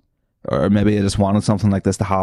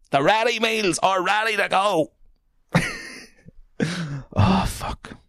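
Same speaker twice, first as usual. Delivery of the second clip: much higher put-on hustler voice, quieter; imitating Andy Malone; 12 semitones higher, 3 dB quieter than usual. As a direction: squeak out the ready-meals slogan in mock voice. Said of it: "for me to imitate you".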